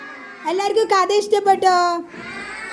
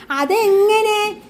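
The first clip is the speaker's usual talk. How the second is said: slow, rising and high, puzzled; doubtful question; 4 semitones higher, much slower than usual. Acted. The little turtle doubting the elephant's plan, slow puzzled question. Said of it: "കുഞ്ഞിന് സംശയമായി".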